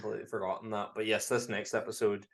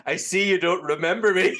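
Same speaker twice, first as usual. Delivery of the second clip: higher, louder hammed-up quote; mock spooky line; 8 semitones higher, 8 dB louder than usual. Leprechaun's line to Homer, mock creepy high voice. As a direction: deliver it like a creepy reveal. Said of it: "And he's like".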